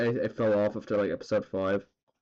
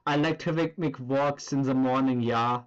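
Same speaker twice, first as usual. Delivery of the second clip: put-on German accent. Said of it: "the German dude from the meme".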